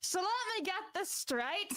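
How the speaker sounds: put-on half-hearted Australian accent on request; attempted Australian accent. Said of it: "speak in your best Australian accent".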